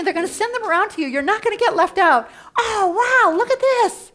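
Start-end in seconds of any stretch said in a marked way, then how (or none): 2.6-4.1 high, loud, laughing fake delight; mock squeal. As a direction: gush with a laugh in the voice. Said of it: "this is where you squeal".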